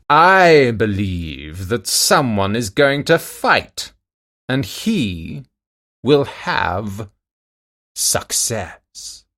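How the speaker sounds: slow, loud, ominous giantess. A narrator's reading. Giantess foretells the coming fight, slow and loud, then fading. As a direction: drawl the omen out, ending in a hush. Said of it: "Then the giantess said".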